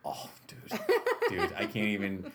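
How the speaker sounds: laughing while talking; excited laugh through words. Real, not acted. Laughing about upcoming video.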